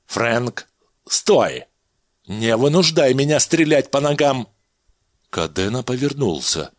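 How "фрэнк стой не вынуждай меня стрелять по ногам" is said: mild louder call to stop; threatening shout at the fleeing man. Acted. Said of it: "крикнул".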